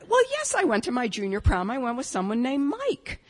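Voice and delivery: acted-out huffy comeback; mildly offended. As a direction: answer back fast, a little affronted. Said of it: "I was a little offended by that".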